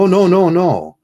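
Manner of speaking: high, loud mock-wife protest; wife's protest. Wife refusing responsibility, squealed high and loud.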